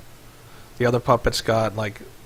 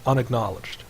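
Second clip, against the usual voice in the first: mechanical robot readout; robot reporting an error; much faster than usual. Acted. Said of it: "you hear a mechanical voice".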